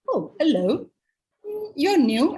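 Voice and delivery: lightly voiced suave wolf. Wolf comes up to the girl in the woods, suave. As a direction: greet her smoothly, with a rising, drawn-out purr of interest. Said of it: "in his very suave, uh, uh, way".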